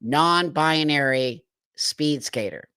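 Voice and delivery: slow, disbelieving recap; incredulous. Real, not acted. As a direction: spell it out slowly.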